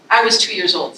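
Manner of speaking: the poem's first take, full of feeling; heartfelt poem line. Shown as a demonstration. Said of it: "this is in Vivi's voice speaking to that photograph".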